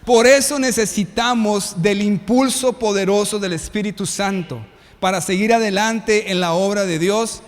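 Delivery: loud preaching call to the congregation. Acted. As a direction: proclaim it loud to the whole church. (predicación fuerte a la congregación)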